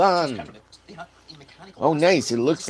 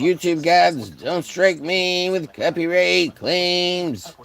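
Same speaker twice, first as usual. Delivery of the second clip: mock plea; 7 semitones higher, 6 dB louder, much slower than usual. Mock prayer.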